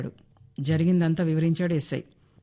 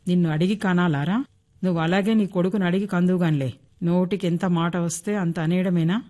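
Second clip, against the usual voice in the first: mother shaking with mild acted anger; a touch of fury, understated; angry scolding. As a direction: scold the rude son. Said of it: "కోపంతో ఊగిపోతూ తిట్టింది".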